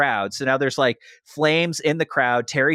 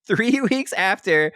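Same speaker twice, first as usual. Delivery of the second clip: slow and higher, broken by laughter; laughing, can't get it out; 7 semitones higher, slower than usual. Real, not acted. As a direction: try to speak through the giggles. Second try through laughter.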